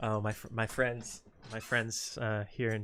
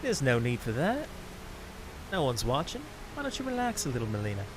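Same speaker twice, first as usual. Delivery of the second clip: teasing character. Acted. Character telling Melina nobody is watching, coaxing. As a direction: coax her lightly, pitch leaping up.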